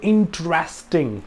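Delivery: "इंटरेस्टिंग" stressed on its "रेस्टिंग" part; "इंटरेस्टिंग" with the weight after the first syllable; word stress. Shown as a demonstration. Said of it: "रेस्टिंग पे ऊपर जो stress किया है".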